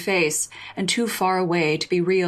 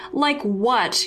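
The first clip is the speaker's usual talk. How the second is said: high, sharp retort; yell; 5 semitones higher than usual. Acted. Justine yelling back at Jasmine on the bench, high and sharp. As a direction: snap it back at her, pitched up. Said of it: "you yell".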